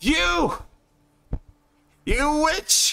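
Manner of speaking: shouting accusingly. Voicing a character who points at a woman: yelling accusingly. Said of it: "instead of just yelling at her".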